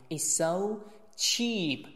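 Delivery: "it's so" joined with one single s; merged S. Shown as a demonstration. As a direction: say one s across "it's so cheap". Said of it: "只有一个s发音". ("it's so cheap"只读一个s)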